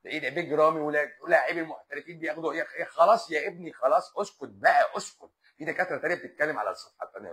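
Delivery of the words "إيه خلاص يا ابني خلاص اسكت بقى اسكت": louder, fed-up hush; annoyed telling off. Real, not acted. Doctor silencing a pestering live viewer, loud and fed up. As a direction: shut the commenter up.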